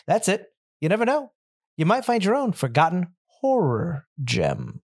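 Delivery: playful horror-show host read; spooky show opener with lively swoops; scripted podcast intro. Acted. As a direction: punch through a tongue-in-cheek promo.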